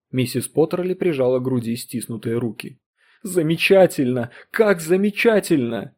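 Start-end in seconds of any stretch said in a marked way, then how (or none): 3.2-5.9 delighted. Acted. Wife delighted by device.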